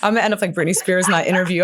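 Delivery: rattled off fast through a laugh. Real, not acted. Guest joking to host about smudged lashes, laughing fast. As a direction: giggle through the joke at her own expense.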